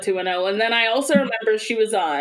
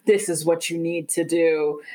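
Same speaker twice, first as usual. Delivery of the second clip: bossy advice; 5 semitones lower than usual. Retold or imitated. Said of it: "being like".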